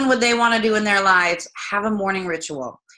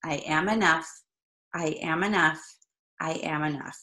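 affirmation; 4 semitones lower, 6 dB quieter than usual. Shown as a demonstration. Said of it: "So repeat after me right now".

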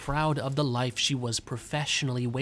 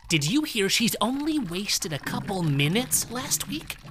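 lightly voiced catty office gossip, a bit higher; gossiping coworker; 5 semitones higher than usual. Coworker gossiping about Gibby, a hint of catty glee. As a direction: dish the dirt like a nosy coworker. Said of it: "they wasted time by gossiping about her".

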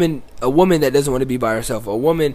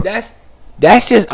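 muffled, talking into a cup; 7 semitones higher, slower than usual. Real, not acted. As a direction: speak into a cup like a mic. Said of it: "I'm talking into the cup like it's the mic".

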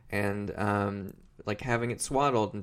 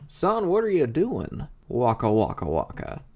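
hammed-up Muppet-style dad; puppet dad; 2 semitones higher, 3 dB louder than usual. Puppet dad walks in on his son, hammy puppet voice. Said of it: "his puppet dad walks in and goes".

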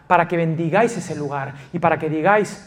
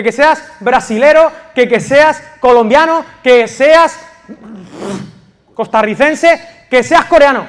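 loud, high-pitched preaching at full force; fiery preaching; 6 semitones higher, 7 dB louder than usual. Acted. Pastor urging the church to loyalty, fiery preaching. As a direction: drive each point home to the congregation.

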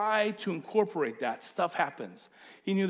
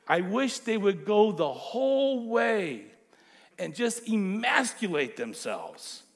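furious Paul; 4 semitones higher, 5 dB louder than usual. Retold or imitated. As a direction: spit out the curse on the agitators. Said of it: "how furious he became".

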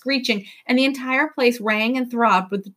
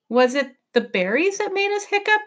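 put-on high, rising young voice; boy's question; 9 semitones higher than usual. A narrator's reading. Tom asking the professor, high and questioning. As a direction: ask it as a curious boy.

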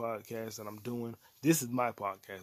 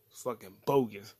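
loud scoff; 6 dB louder than usual. Real, not acted. Ranting about a bad TV season.

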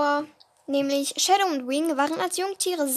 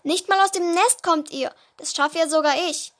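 calling out; 3 dB louder than usual. Acted. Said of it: "riefen sie von allen Seiten".

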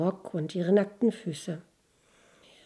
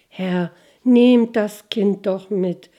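slow, louder, earnest plea; pleading old nurse; 5 dB louder, slower than usual. Acted. Old nursemaid begging the lord for the child, slow pleading. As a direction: beg the lord slowly to take the child. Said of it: "bat die alte Kinderfrau noch einmal".

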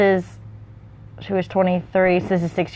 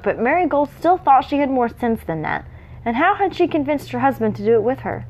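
measured read-aloud narration; story narration; 2 semitones higher than usual. A narrator's reading.

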